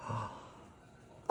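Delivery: quiet gasp of emotion; soft gasp. A narrator's reading. Missus Goldman receiving the hat with a soft gasp. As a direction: catch your breath, moved. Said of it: "then she cries".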